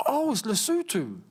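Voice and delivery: "Lesotho" as luh-SOO-too, pitched high; surprised discovery. Real, not acted. Streamer discovering the real name, surprised "Lesotho", luh-SOO-too. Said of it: "How do you actually say Lesotho?".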